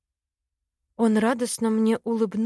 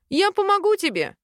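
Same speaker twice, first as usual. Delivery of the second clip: confident; 10 semitones higher, 3 dB louder than usual. A narrator's reading. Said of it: "уверенно сказал Ростин".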